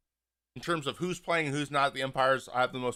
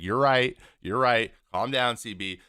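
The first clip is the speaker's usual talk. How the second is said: placating, pitch easing lower; deferring; 4 semitones lower than usual. Retold or imitated. Player deferring to an angry umpire, placating. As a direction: give in to calm him down. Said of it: "he's deferring to him".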